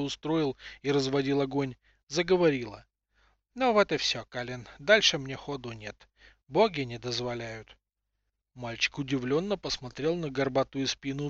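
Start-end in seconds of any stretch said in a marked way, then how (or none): 3.5-7.8 put-on old woman voice. Seer farewell.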